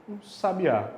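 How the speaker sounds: "sabiá" stressed on the last syllable, sa-bi-Á; stress on the final A. Shown as a demonstration. Teacher names the bird for students, stress on Á of "sabiá". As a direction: land on "á" at the end of "sabiá". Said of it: "Transformei em um passarinho".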